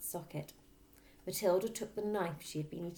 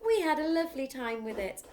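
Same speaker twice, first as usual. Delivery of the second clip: innocent Matilda; 9 semitones higher, 7 dB louder than usual. Acted.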